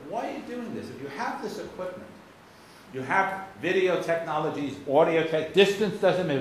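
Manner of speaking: high-pitched, insistent questioning; pressing question. Retold or imitated. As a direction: push the travellers for a real answer. Questioning travelers at the airport.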